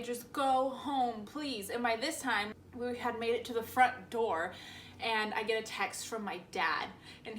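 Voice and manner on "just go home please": slow plea, softening on "please"; pleading. Retold or imitated. Girl turning down boyfriend's runaway plan, gently pleading. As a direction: draw out a restrained, weary plea.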